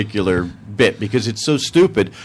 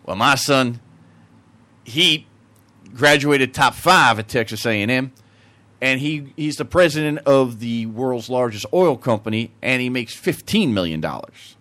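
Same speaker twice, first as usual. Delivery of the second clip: put-on Texan accent. Texan outdoing the Englishman about his son, Texan accent. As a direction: brag evenly as a Texan. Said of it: "The Texan".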